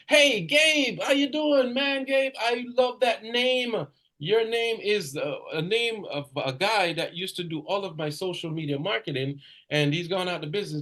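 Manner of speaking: high, loud, upbeat greeting that fades to plain by the end; enthusiastic sales call. Shown as a demonstration. Salesman greeting a prospect on the phone, high and upbeat. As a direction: gush over the name like a friendly salesman. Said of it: "Hi, may I speak with Gabe?".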